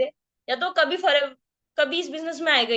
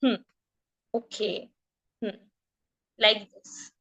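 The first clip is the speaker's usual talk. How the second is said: engaged listening murmurs; 4 semitones lower, 6 dB quieter, much slower than usual. Shown as a demonstration. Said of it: "कैसे?".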